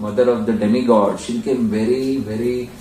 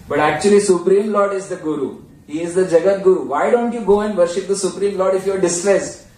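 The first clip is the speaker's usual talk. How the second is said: frustrated sage; 6 semitones higher than usual. Retold or imitated. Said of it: "in irritation".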